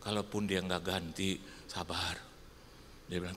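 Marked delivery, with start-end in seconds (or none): 0.0-2.2 low, softened confidential advice; retold whisper. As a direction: murmur it low, as if aside. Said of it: "Terus saya bisikin dia". (menirukan bisikan pelan)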